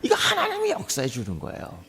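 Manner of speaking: joyful laughing repeat. Shown as a demonstration. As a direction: chuckle the point home. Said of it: "할렐루야".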